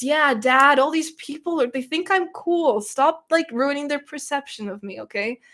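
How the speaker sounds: exasperated plea to Dad, pitch jumping up; exasperated complaint. Real, not acted. Embarrassed streamer scolds Dad before the audience, exasperated. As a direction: whine at Dad for embarrassing you.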